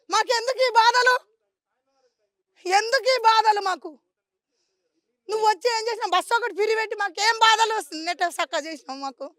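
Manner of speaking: anguished, crying lament to an official; real tearful pleading. Real, not acted. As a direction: plead through tears. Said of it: "ఎందుకు ఏడుస్తున్నావు తల్లి?". (ఏడుస్తూ ఆవేదనతో)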